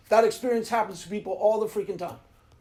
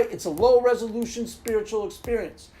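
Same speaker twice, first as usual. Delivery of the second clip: ordinary talk, nothing marked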